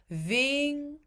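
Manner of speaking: vingar with ng and no G release; no hard G. Shown as a demonstration. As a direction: keep the G silent in vingar. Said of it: "he doesn't pronounce the G".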